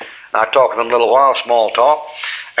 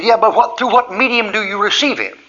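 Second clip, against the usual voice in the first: high-pitched pedantic objection; raised, mock-argumentative question; mock quibbling; 9 semitones higher than usual. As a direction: imitate someone insisting on a fine point. Hitchhiker repeats his quibble.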